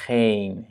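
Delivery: Geen with a long E. Shown as a demonstration. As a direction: draw out the E in Geen. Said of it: "donc c'est un E long". (« Geen » avec un E long)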